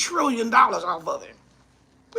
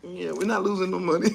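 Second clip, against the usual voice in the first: quoted reply; 7 semitones lower, 4 dB quieter than usual. Retold or imitated. Comedian quoting the boardroom reply, low mock voice. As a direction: lower and softer, offhand mock voice. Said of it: "somebody said".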